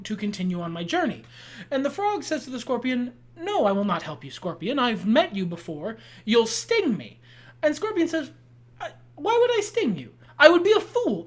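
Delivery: measured storyteller voice with acted dialogue; storyteller reciting an old fable; fable storytelling. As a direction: narrate a fable, voicing each creature. Tells the scorpion and frog fable.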